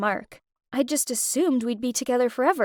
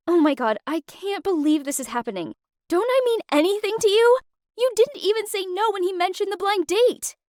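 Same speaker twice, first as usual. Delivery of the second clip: higher, louder outraged pleading; retold fuming; 8 semitones higher, 4 dB louder than usual. Girlfriend outraged at boyfriend over blind date, higher and louder. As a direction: let the outrage spill over. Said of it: "I was fuming by this point".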